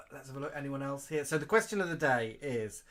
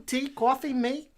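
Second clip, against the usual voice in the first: flirty; 11 semitones higher, 6 dB louder than usual. Acted. Flirty host offer, high.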